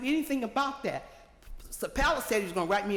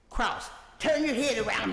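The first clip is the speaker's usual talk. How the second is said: retold hollering; 3 semitones higher, 4 dB louder than usual. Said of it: "screaming and hollering".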